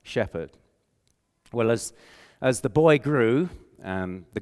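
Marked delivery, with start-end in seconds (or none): 0.0-0.6 very slow, one word per finger. Shown as a demonstration. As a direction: count each word out slowly on the fingers. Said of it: "You can do it with your kids".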